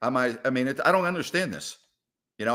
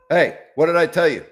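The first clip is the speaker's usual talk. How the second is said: scolding the cat; 2 semitones higher, 7 dB louder than usual. Real, not acted.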